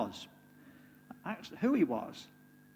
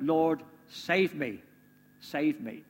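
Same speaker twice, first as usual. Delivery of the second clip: slow, pleading cry of save me; calling out for help; much slower than usual. Acted. Peter sinking, calling to Jesus, slow pleading cry. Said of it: "he called out".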